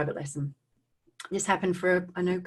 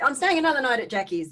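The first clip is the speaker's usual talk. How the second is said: retold excited kid; 6 semitones higher, faster than usual. Re-enacts phoning mum next day.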